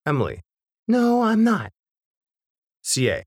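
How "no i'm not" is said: put-on much higher, childish protest. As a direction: pipe it up like a sulky kid. Daughter Emily answers her mother.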